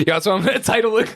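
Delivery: high squealing laugh through words. Real, not acted. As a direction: squeal the words while cracking up. Laughing while announcing episode title.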